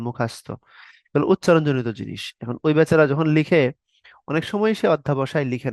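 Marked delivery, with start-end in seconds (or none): 0.1-0.5 মুখাস্ত in a Barishal way, long a sound; Barishal pronunciation. Retold or imitated. Teacher imitates the Barishal way of saying মুখস্থ. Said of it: "বরিশালে বলে".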